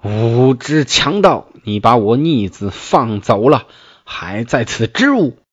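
put-on a stern old general berating him; angry scolding. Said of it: "睁目大骂".

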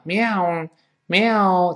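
high-pitched imitated meow; cat meow. Shown as a demonstration. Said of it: "就像我们说过猫叫嘛".

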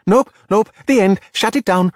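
mother shutting down the surface talk, loud and high; exclaiming. A narrator's reading. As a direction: slam the topic shut. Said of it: "Daniela exclaimed".

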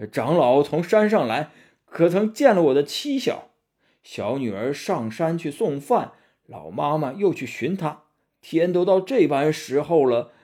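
lightly voiced anxious old man; mildly plaintive, lilting questions; disguised demon pleading. Fake old man asks monks after wife and daughter, mildly plaintive.

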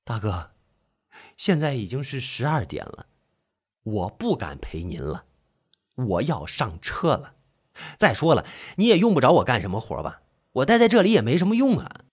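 low, soft, hesitant plea to leave; timid excuse. Acted. Narrator begging off from big brother to catch his ride, timid. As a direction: make your excuses in a small low voice.

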